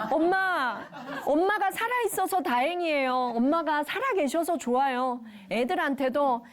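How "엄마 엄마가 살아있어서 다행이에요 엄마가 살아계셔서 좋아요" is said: voiced thanks. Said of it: "배우자끼리 이렇게 말하고요".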